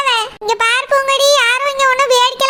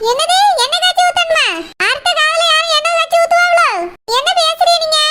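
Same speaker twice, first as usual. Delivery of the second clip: higher-pitched, affronted questioning; indignant disbelief; 3 semitones higher than usual. Acted. Daughter-in-law challenges mother-in-law's odd question, indignant. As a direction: throw the question back, appalled. Misheard question angers her.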